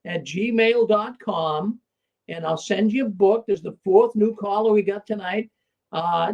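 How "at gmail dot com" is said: slow dictation. Real, not acted. Host dictating email address.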